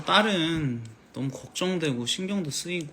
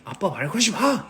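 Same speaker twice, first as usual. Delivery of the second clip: put-on loud sulky teen shout; son snapping; 5 semitones higher, 3 dB louder than usual. Son yelling at his dad to leave him alone, loud. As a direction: bark it at dad like a moody son. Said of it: "근데 아들이".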